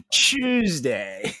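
"Tuesday" as a drawn-out CHEWS-day; British Tuesday. Shown as a demonstration. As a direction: relish the ch in mock-British "Tuesday". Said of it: "They chew the day".

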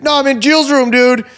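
high mock fluster; flustered friend. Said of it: "he's like".

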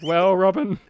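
a mild, earnest Batman reply. Retold or imitated. Batman gently correcting Robin, mildly earnest. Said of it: "And he's just like".

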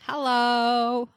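talking with a mouthful; greeting through a bite of food; mouth full. Real, not acted. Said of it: "Sorry, I got food in my mouth".

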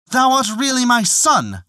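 put-on high, overjoyed old father's cry; joyful cry. A narrator's reading. Old peasant recognising his long-lost son, crying out high with joy. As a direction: cry out in glad disbelief. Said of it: "cried the old man".

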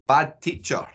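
lightly put-on podcast presenter voice; a hint of posh, lively show host; posh presenting voice. Host welcomes listeners to the movie episode, presenting voice. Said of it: "go back to my presenting voice".

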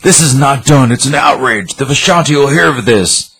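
high, indignant mock protest; acted outrage. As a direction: play an outraged villain, pitch lifted. Acted quarrel, Doom protests outrage.

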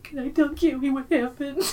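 put-on high eager little kid; toddler voice. Little boy asking to tell his aunt, high child voice. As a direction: ask it like an excited small boy. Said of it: "He was like".

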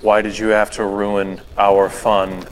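flat, slow, eerie monotone. Retold or imitated. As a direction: read it dead flat and slow. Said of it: "this monotone voice".

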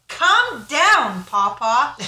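put-on loud, high toddler yell, read aloud; big high-pitched shout at grandpa; yelling little diva. A narrator's reading. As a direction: yell it like a bossy little kid. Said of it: "Our little diva stood up and yelled".

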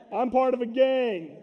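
slow, amused with a laugh; amused confession with a laugh. Real, not acted. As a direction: joke through a chuckle. Laughing joke about gang sign.

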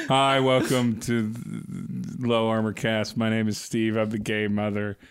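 hammed-up deep host voice; deep intro voice. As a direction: drop the voice deep and drag it.

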